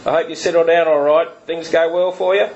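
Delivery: lightly done rasping nasal Chifley; a hint of a rasping nasal politician. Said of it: "in his rasping nasal voice".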